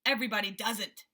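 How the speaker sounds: gruff rhinoceros retort; angry voice. Acted. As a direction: snap back at him. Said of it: "said the angry voice".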